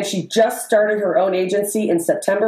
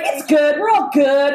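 breezy reassurance; 5 semitones higher than usual. Retold or imitated. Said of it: "and she's like".

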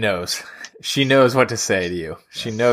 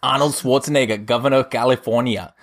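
put-on Arnold accent. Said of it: "Arnold. Continue".

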